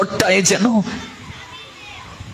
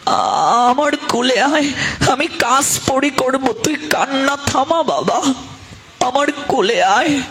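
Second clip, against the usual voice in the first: put-on higher, tender mother calling her child; a mother hushing her crying child, tender and higher; 4 semitones higher than usual. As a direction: gather the crying child in, lovingly. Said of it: "তখন মা দৌড়ে আসে".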